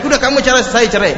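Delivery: husband blurting divorce mid-quarrel; heated outburst. Retold or imitated. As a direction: blurt it out in the heat of the fight.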